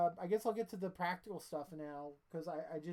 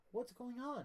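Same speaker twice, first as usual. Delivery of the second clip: a light mock of a clumsy dubbing actor, higher; bad English dub voice; 6 semitones higher than usual. Mocking a bad English dub of an Italian actor, lightly higher. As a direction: stiff dubbed-movie line, played for laughs. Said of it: "dubbed over by someone who can speak the worst English".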